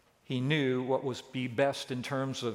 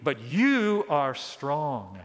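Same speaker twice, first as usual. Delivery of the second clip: slow, drawn-out mock praise; lightly sarcastic, slow flattery; ironic; much slower than usual. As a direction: stretch the compliment with irony. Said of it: "Paul's speaking ironically here".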